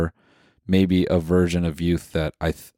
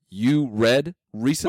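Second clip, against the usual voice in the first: slow, higher incredulous question; mock disbelief; 5 semitones higher than usual. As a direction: act stunned he reads. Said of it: "You're like".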